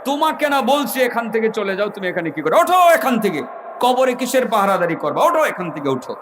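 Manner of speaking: acted harsh rebuke with sharp high bursts; stern scolding shout. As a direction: bark the name, then scold and order him away. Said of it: "কঠিন হুংকার দিয়ে ধমক দিয়ে".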